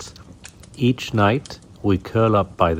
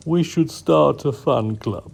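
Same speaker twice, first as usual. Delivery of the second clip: higher lightly voiced sleepy cat; lady cat; 6 semitones higher than usual. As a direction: toss it off with a yawn.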